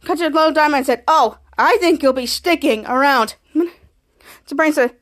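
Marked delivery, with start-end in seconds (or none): 1.1-3.4 "sticking" leaned on slowly and playfully; slow teasing line, stressing "sticking" as a hint; playful emphasis on "sticking". Retold or imitated. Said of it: "with a rather playful emphasis".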